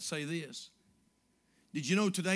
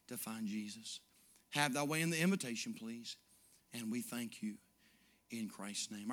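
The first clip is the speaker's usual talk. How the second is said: closing prayer; 3 dB louder than usual. Acted. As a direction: pray over the congregation.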